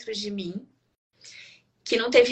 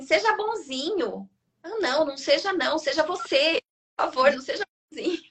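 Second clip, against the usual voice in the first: mock pleading; 5 semitones higher than usual. Pleading with the baby.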